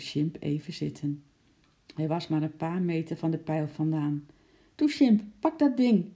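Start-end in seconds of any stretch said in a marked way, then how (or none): 4.7-6.0 high, loud urging; encouraging call. A narrator's reading. Lotje calling up to her monkey, encouraging. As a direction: cheer the climber on, pitched up. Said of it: "riep Lotje aanmoedigend".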